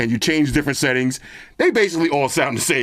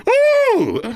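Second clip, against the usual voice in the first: rowdy party animal; 4 dB louder than usual. Real, not acted. Hyped up testing loud headphones.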